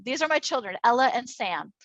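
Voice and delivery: normal talking voice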